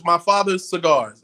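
slow, loud announcement of the brand; emphatic label reading. Shown as a demonstration. Smoker reading cigar brand to host, slow emphatic reading. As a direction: spell out "My father's cigars" slowly and loudly.

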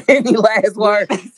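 slow villain voice with a laugh; booming echoing villain monologue. Pretend. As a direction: loom over them like a movie villain. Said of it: "I don't wanna sound like a villain".

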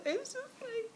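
high, squeaky, laughing hard; choking on laughter. Real, not acted. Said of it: "I'm so emotional".

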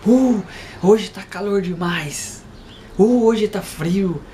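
drawn-out, exaggerated grumbling about the weather; moaning and groaning, hammed up; mock complaining. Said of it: "as pessoas vivem reclamando".

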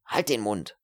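tense, curt hiss; angry hissed command; hissed order. Acted. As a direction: shut her up under your breath. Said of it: "zischte er".

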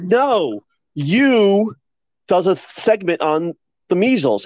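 retold argument, leaning hard on the title; insistent correction. Guest correcting a confused anchor, insistent.

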